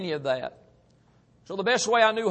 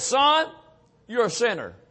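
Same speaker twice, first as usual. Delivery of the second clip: voice of God; 4 semitones higher, 3 dB louder than usual. Retold or imitated. God speaks to the sinner, loud and preaching. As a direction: voice of God, higher and louder, preaching force. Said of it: "That, that still small voice that spoke".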